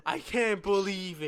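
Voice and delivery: slow, loud mock disbelief; loud whisper voice. Friend retelling classmate's shock in class, loud whisper voice. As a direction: imitate an astonished loud whisper, drawn out. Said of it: "in a loud, like, whisper voice".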